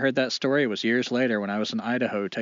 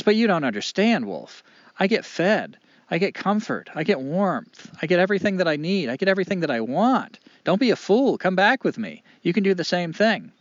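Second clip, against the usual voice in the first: high, loud, urgent persuasion; defensive, impassioned appeal, pitched up; insistent pleading; 7 semitones higher, 5 dB louder than usual. Acted. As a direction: plead your case point by point, voice raised. Dog urges Wolf to join him.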